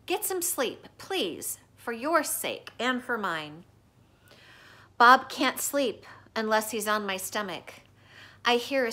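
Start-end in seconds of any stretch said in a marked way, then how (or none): 0.1-3.6 gentle. Acted. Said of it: "Bob says gently".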